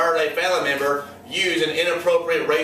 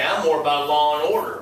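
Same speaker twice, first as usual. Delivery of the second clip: lightly put-on Southern redneck accent; 3 semitones lower than usual. Teacher imitates a Southern redneck politician, mock Southern accent. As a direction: slip into a mock Southern twang. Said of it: "I don't know why that accent comes out".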